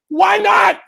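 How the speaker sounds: exasperated. Acted. Driver asks.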